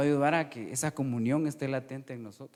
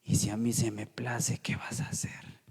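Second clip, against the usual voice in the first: whispered reply; 4 semitones lower, 3 dB quieter than usual. Retold or imitated. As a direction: answer gently in a whisper. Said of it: "¿saben qué me dijo?".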